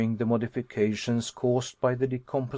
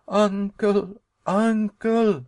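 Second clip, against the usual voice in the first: high, loud cries of alarm; frightened cry; 8 semitones higher, 5 dB louder, much slower than usual. Acted. Nephew crying out to his uncle in the shaft, alarmed and high. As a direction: call out to uncle in panic. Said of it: "I cried".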